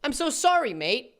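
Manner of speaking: a hint of mock British apology; attempted British accent. YouTuber reading Jesse's reply, lightly British. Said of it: "I'm not doing an accent".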